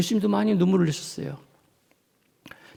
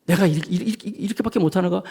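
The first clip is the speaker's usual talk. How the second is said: despairing self-talk; faster than usual. Acted. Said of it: "막 이런 엄청난".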